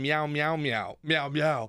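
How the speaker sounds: kitten meows in a high put-on voice; mock cat meows. Kid pretending to be a cat to his dad, mock meowing. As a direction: meow like a pleading cat. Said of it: "And he'd be like".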